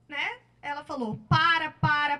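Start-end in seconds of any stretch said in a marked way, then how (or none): 1.3-2.2 retold cry to stop. Victim's plea retold in story.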